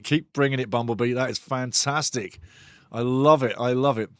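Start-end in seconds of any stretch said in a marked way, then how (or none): 1.1-4.1 sarcastic. Acted. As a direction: drag it out like you mean the opposite. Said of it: "You can't have enough sarcasm ever".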